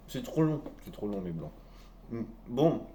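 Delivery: talking with mouth full. Real, not acted. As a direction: speak through a mouthful of bread. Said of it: "je parle la bouche pleine".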